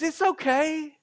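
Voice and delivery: a hint of God reassuring his child. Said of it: "And he says".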